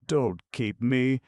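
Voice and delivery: slow, high, loud piteous wail. A narrator's reading. Dog pleads to go free, piteous wail. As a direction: wail it out pitifully. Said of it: "wailed the dog piteously".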